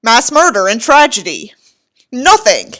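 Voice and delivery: contemptuous book reading, evenly paced; story narration. Acted. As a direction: read the passage with disdain.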